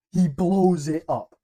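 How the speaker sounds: slow, loud, high and awed; a fan savouring the big moment out loud; awed exclamation. Acted. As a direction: let it land slowly, amazed. Repeats the hero's explosion for emphasis.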